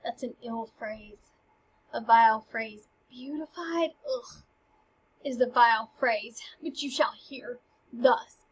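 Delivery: a disgusted, offended ugh and a sneer at the phrase; Polonius, offended by the love letter, disgusted. Acted. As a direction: recoil from the word beautified. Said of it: "Polonius gets offended".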